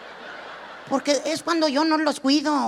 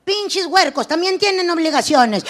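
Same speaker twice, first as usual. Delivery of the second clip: mock ad shout; 3 semitones higher, 4 dB louder than usual. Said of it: "un comercial que diga".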